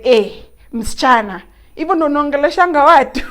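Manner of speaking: a lightly voiced touchy conductor snapping back; indignant conductor. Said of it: "he looked at me and was like".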